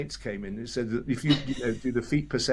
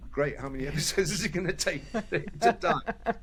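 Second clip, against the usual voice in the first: gleeful; 5 semitones higher than usual. Retold or imitated. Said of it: "Tim's first reaction ... is".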